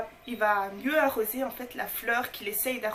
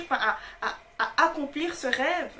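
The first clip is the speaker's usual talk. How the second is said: usual speaking voice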